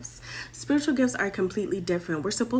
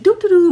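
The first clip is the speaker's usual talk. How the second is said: loud, quick little ditty; carefree, louder filler tune; carefree doo-doo-doo; 11 semitones higher, 12 dB louder, faster than usual. Acted. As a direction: toss off a jaunty vocal ditty. Mimics them leaving carefree.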